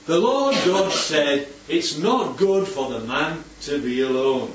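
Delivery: slow, deliberate Bible reading; scripture reading. Acted. Teacher reads the next verse to the group, slow scripture reading. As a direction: read the verse out with weight.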